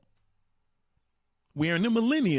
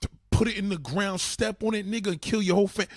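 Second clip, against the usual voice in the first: mock threat; 3 semitones higher than usual. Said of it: "you're gonna be like".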